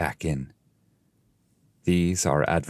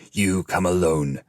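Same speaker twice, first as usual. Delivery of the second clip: disdainful. Acted. The fallen ones dismiss the intruder with mild disdain. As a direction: look down on them as you speak. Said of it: "their great disdain".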